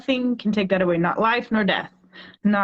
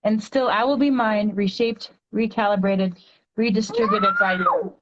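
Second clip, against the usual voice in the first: poem reading; 2 semitones higher than usual. Acted. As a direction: read it like a heartfelt poem to a child. Reads her poem aloud.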